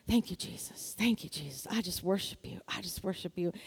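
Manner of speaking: imitating a soft, low, whispered prayer; whispered praise. Praising Jesus in her parents' house, whispering. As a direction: whisper it privately to Jesus, barely voiced. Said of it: "I was whispering".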